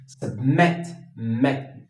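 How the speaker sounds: "submit" with the stress on its last syllable, "met". Shown as a demonstration. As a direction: lean on the "met" of "submit", then repeat it alone. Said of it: "There's a stress there".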